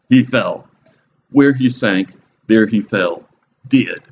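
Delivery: slow, measured, punched-out verse reading; dramatic verse recitation. Acted. Preacher reading a song of victory to listeners, dramatic recitation. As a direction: land each short phrase with dramatic weight.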